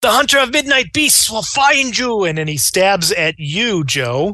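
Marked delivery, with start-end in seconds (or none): 0.0-2.2 wild, charging scream, pitched high. A game master narrating Enzio charging with a knife, Enzio screaming. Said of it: "and he screams".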